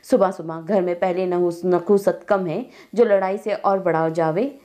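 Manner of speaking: grandmother scolding loudly. Acted. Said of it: "ज़ोर ज़ोर से बोल रही थी".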